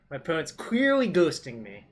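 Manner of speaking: dry, mock-wounded complaint; sarcastic. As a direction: say it with heavy sarcasm. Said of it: "let me preface this with me being sarcastic".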